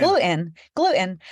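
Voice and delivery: "gluten" with a swallowed T; loud, clear glu'-in; New Jersey pronunciation. Shown as a demonstration. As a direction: stop the throat mid "gluten" in place of T. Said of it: "people in New Jersey".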